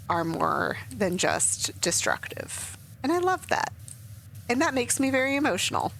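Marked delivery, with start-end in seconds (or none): 3.0-5.9 choked-up high voice dropping to breath; real welling emotion, fading into whispered self-soothing; getting emotional. Real, not acted. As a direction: let it well up high, then whisper yourself calm. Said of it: "I'm gonna get emotional".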